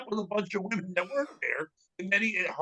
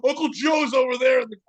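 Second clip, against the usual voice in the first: put-on higher playful kid blurt; 6 semitones higher, 4 dB louder than usual. Kid telling police on his uncle, playful blurting. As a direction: blurt it out like a tattling kid, lightly acted.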